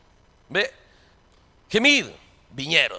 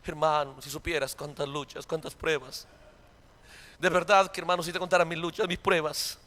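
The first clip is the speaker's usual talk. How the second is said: much lower and softer, self-pitying moan; mock whining believer; 7 semitones lower, 11 dB quieter than usual. Preacher mocking a complaining brother, low and whiny. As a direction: sigh it out like a sufferer.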